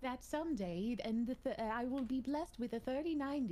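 put-on prim old-timey movie voice; glamorous old Hollywood star accent; Mid-Atlantic accent. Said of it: "There it is".

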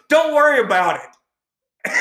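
high, loud, drawn-out mock dismissal; exaggerated slow, high-pitched retort; imitated brush-off. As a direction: mimic a fed-up manager, stretching the words. Imitates the irritated manager's brush-off.

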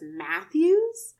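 high rising shocked question; stunned girl repeating a name. Retold or imitated. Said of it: "Like, just, like, shocked".

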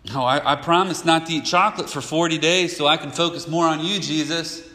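a hint of an over-keen churchgoer praying; mock earnest vow. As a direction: play a believer making an eager promise.

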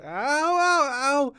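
high, loud yelps of pain; pained cries. A narrator's reading. Injured girl tries rolling over, high cries of pain. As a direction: cry out in a high child's voice. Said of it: "she gasped in pain".

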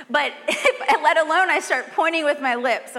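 laughing through the words; giggling while talking. Real, not acted. Laughing at own lip-pointing image.

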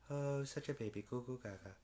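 put-on soft cooing at a baby; mock baby talk. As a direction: coo it quietly, playfully. Cooing over baby Blue.

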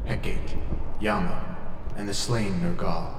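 lightly voiced old Scottish ghost; a hint of a sly Scottish spirit; ghostly Scottish spirit. Ghost Danny speaks.

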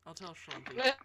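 loud, gleeful tattling; loud teasing threat. Real, not acted. Friend teases a girl about telling her boyfriend, loud and gleeful.

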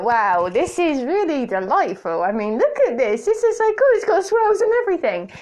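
mock-delighted gushing; gushing over milkshake. Podcaster retelling her first look at the milkshake, gushing. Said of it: "I was looking at it like".

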